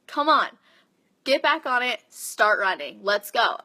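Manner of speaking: pushy but not mean. Retold or imitated. Coach to a flagging client, firm and not mean. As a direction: urge a runner on firmly, without meanness. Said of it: "not in a mean way".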